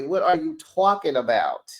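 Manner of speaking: put-on a light New York accent on "talking". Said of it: "my little New York accent".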